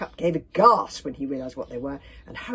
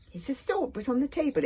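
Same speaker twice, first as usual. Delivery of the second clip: mouth full; 8 semitones higher than usual. A narrator's reading. Dragon explaining what it saw, mouth full. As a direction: explain through a stuffed mouth. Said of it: "spoke through a mouthful of cookies".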